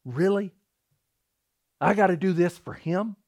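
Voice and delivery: mock grumbling complaint to God; retold exasperated questioning. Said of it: "I started just grumbling".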